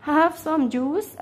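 very slow, clear English for learners; teacher voicing the girl's line, very slowly; slow read-aloud. Shown as a demonstration. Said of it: "قال لها".

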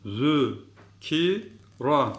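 "Zü, ki, ra" sounded out, rising on "ki"; lisped "Zü". Shown as a demonstration. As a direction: lisp "Zü" and separate each syllable. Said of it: "Bir daha okuyorum".

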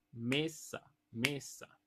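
"mesa" split evenly into me-sa; measured "me-sa"; two-syllable rhythm word. Shown as a demonstration. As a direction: say "mesa" as two equal beats. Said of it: "de dos sílabas".

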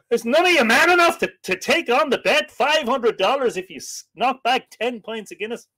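high-pitched, challenging American woman; indignant American dare, pitched well up; American accent. Acted. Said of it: "That's a good American accent".

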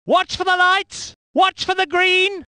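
high, sustained start-line call; tense anticipation. Acted. Commentator before the green light, high expectant call. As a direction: hold it high, waiting for the start.

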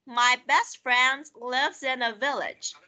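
slow, careful model reading for repetition. Shown as a demonstration. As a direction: read it slowly so the class can repeat. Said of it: "Listen and repeat". (đọc mẫu chậm rãi)

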